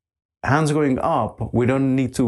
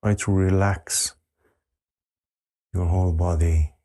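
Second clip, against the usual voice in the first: unhurried meditation voice, settling lower with long pauses; guided meditation; 6 semitones lower than usual. Real, not acted. Teacher asking meditators to relax the whole body, guided meditation. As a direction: guide them gently into stillness, letting pitch sink.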